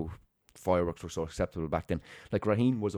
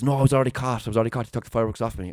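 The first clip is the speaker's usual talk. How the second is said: higher, louder, protesting he was already caught; insistent protest; 4 semitones higher, 4 dB louder, faster than usual. Retold or imitated. Boy protests to the guard, insistent and raised. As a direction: push back hard, you've done nothing wrong.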